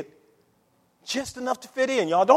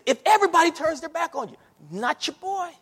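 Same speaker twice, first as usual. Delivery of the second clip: Peter's boast, laughing; 8 semitones higher than usual. Retold or imitated. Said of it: "he said".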